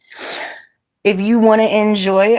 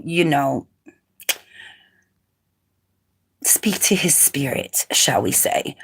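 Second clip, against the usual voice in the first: lower, hushed mock seance voice; mock spooky medium; 6 semitones lower than usual. Streamer tells Raven the banned troll is gone, mock eerie hush. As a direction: play a medium who lost the spirit, half joking. Speak to his spirit, shall we say.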